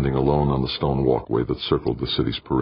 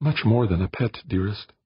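fond murmur; 6 semitones higher than usual. A narrator's reading. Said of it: "she murmured".

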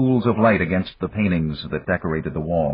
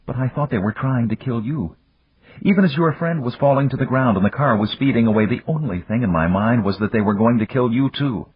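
higher-pitched, anxious woman's voice; frightened woman; 6 semitones higher than usual. Acted. Woman tells the man she feared for his life, anxious. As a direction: pour out the fear, pitched up.

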